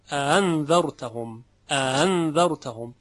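اَأَنذَرْتَهُمْ with the second hamza softened; eased second hamza. Shown as a demonstration. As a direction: glide over the second hamza in اَأَنذَرْتَهُمْ without a hard catch. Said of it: "به تسهیل همزهٔ دوم ورش خوانده".

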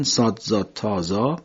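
صاد، زاد، تا، زا recited one by one, each letter named slowly; name each Arabic letter clearly; emphatic Arabic letters. Shown as a demonstration. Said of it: "این چهار تا حرف پشت سر هم هستن".

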